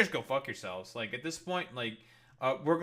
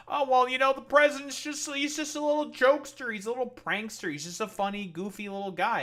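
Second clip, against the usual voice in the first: high, louder sing-song mockery of the excuse; mocking Republican excuse; 9 semitones higher, 4 dB louder than usual. Streamer mocks Republicans excusing Trump in a high, louder, sing-song voice. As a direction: pitch it way up and louder, making fun of them. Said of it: "They were saying, like".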